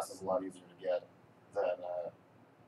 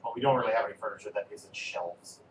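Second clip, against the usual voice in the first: talking while lying flat on the floor. Real, not acted. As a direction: speak lying on your back, voice a bit squashed. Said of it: "it's 'cause I'm laying on the floor".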